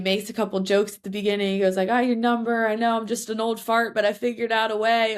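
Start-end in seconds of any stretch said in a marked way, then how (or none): 1.9-5.2 mild imitation of an old Southern coach; a hint of Southern accent in a higher voice. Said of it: "in his southern, southern voice".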